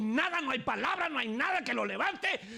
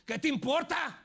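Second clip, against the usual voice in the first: much higher, louder, hammed-up shrewish retort; snappy wife; 8 semitones higher, 4 dB louder than usual. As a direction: snap back at your husband like a sulky wife. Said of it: "amoroso le dice". (esposa gruñona que contesta a gritos)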